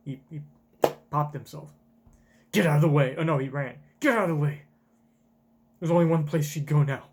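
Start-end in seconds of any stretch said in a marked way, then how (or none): 2.5-3.2 loud barked order; shouted warning; loud command. Acted. Acted command. 4.0-4.6 loud barked order; shouted warning; loud command. Acted. Acted command.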